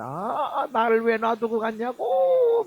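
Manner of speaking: imitated bawling with drawn-out vowels; hammed-up lament, dragging out the cries; mock wailing. Preacher imitating a dog owner's video, mock wailing. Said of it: "진짜 아주 뭐 통곡하는 것처럼".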